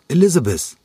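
high, loud joyful cry of a name; delighted surprise. Acted. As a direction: jump up and cry out her name happily. Joyful recognition of an old friend. (freudig überraschter Ausruf, hoch und laut)

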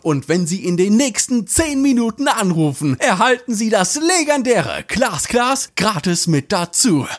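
pushy infomercial sales voice, selling hard; teleshopping pitch. Pretend. Host parodies a teleshopping ad, pushy sales pitch. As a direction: hype up the bargain like a TV shopping host. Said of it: "falsches Format".

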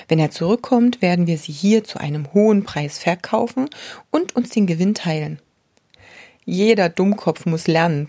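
book passage read aloud, steady storyteller pace; lightly dramatized book reading. Acted. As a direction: read the old parable to the listener.

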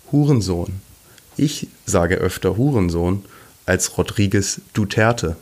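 stiff, even robot voice reading lines. Pretend. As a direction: recite it like a creaky robot. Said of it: "die Roboterstimme".

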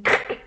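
"Krk" as a vowelless, unvoiced burst; "Krk" with no vowel at all; sneeze-like Krk. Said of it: "er musste niesen".

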